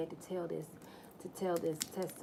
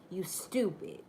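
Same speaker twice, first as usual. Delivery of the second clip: whispered insult; slower than usual. Retold or imitated. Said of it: "I said".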